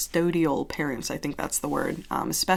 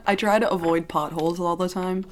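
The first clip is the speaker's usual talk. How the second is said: words blurred by a retainer; retainer lisp. Real, not acted. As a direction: talk round a retainer. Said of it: "I said that really weird, my retainer".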